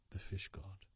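hushed, breathy whisper of a name. A narrator's reading. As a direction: let it fall to a secret whisper. Narrator whispers the god's name.

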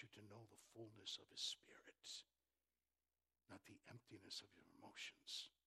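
soft unvoiced whisper; whispered appeal. Real, not acted. Preacher whispering to the congregation, intimate hush. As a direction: drop to a hush to draw them in.

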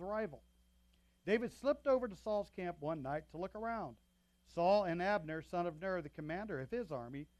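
projected, emphatic Bible storytelling; scripture narration. A narrator's reading. Pastor reading scripture to the congregation, projected narration. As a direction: read the passage out with strong openings to each sentence. Reads a Bible passage aloud.

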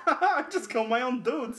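imitating gleeful madness, pitched high; hammed-up crazy villain glee; crazed laughing. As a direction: laugh through it like a mock maniac. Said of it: "he's got the craziest look on his face".

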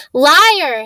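sudden loud outburst; boy's furious cry; shouted. Acted. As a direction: fling the word out defiantly. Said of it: "Harry shouted suddenly".

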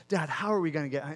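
quick retold child's question; fixated repeating. Son to dad while stuck on the cliff, fixated repeating. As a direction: rattle it off, imitating a nagging kid. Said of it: "he just became fixated on".

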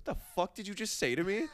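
high, loud, laughing Chicago tough-guy retort; laughing mock tough guy. Host retelling a Chicago stranger's reply, laughing in a high, loud voice. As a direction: quote the guy laughing at your odd phrasing. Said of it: "He looked at me and goes".

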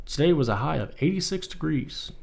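weather report read; news anchor voice. Pretend. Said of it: "I sound like a news anchor".

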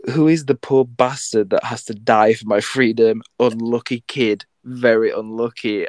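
imitating Atticus's accent. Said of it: "I wanna say it in the accent".

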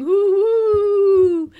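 high, loud excited cries; child squealing while running in circles; excited ooh. A narrator's reading. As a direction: call out in delight. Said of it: "Bluey's going".

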